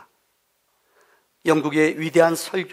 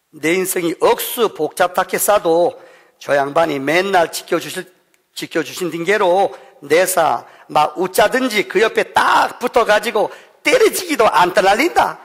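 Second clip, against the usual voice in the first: Gyeongsang dialect. Pretend. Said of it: "경상도 버전이".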